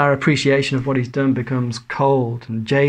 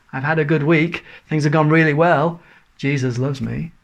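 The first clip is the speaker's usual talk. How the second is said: mock cheerful; 2 semitones higher than usual. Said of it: "that's a dreadful tune".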